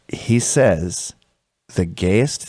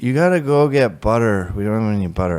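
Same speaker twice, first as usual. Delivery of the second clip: underwater junkie. Retold or imitated. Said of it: "talking like they're underwater".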